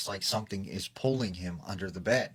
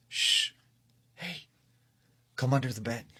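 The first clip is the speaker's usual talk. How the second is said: man's voice; 4 semitones higher than usual. Retold or imitated. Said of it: "it's like a man's voice".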